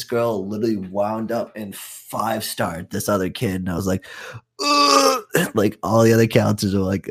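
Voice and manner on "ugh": high, strained "ugh"; retold shocked groan. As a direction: let out a high groan of alarm. Retold reaction to a kid being hit.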